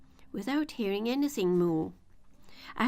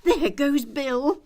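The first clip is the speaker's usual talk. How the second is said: chorus shout; 6 semitones higher, 9 dB louder, slower than usual. A narrator's reading. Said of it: "a general chorus of".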